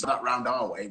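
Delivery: lightly put-on posh English accent; a hint of posh Steve's voice; posh impression. Retelling to co-host, a light posh English voice. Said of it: "he's proper posh".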